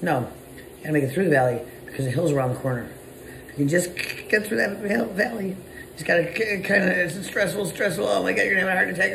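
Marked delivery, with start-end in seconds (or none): 3.5-9.1 high, fast frantic babble; hammed-up panic, voice up high; frantic stressed-out business owner; mock panic. Acting out panic in a valley.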